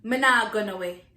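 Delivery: Me nah gonna way in Jamaican patois. Shown as a demonstration. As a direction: answer in patois. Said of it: "where you going".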